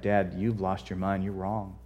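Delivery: soft, low, careful correction; kind, respectful. Acted. Judah respectfully correcting his dad, soft and kind. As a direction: break it to him gently, voice kept down. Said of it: "as kindly and respectfully as he could".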